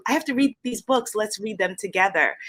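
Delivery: lightly voiced teacher, "read" lifted; retold teacher invitation. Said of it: "And she said".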